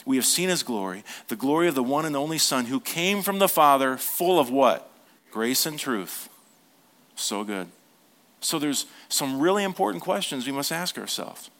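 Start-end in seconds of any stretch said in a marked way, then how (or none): 0.0-6.3 reading scripture to the congregation; sermon delivery, call and response; preaching. Acted. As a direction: preach the verse with rising force.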